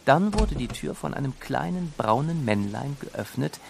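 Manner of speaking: plain reading voice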